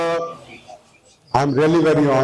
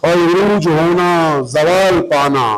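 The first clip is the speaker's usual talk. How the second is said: rhythmic verse with raised, sustained repeats; ghazal recitation; 2 semitones higher, slower than usual. Acted. Poet presenting his ghazal to listeners, mushaira recitation. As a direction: recite metrically, letting each couplet's ending fall.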